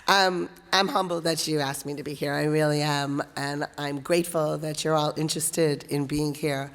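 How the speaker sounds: hoarse, worn voice from a cough. Real, not acted. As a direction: speak through a hoarse throat. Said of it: "I apologize for my hoarse voice".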